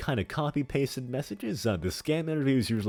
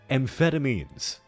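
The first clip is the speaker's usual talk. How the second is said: hammy stage actor; 4 semitones higher, slower than usual. Acted. In-character confession.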